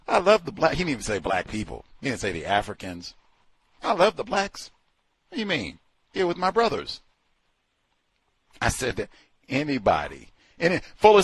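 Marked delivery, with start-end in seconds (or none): 0.1-0.7 higher gushing quote; mock Swango. Vlogger repeating Swango's line, mocking. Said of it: "repeats Swango quote". 3.8-7.0 higher, rising gushing; mock Swango. Swango gushing to locals, hammed up. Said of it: "Swango quote again".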